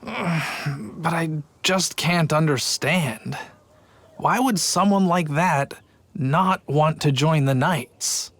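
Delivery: slow, puzzled sigh of disappointment; mild mope, slow; dejected sigh. Acted. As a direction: let the words drag, baffled and let down. Puzzled guard sighs.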